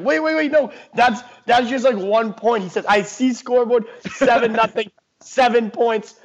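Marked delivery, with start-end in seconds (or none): 0.0-2.6 higher-pitched retold pleading; mock protest. Buddies stopping a friend from leaving the game, mock urgent protest. 2.9-6.1 higher, lightly imitated Indian accent. Friend arguing with buddies about the score, light Indian accent. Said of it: "He looks at me in an Indian accent".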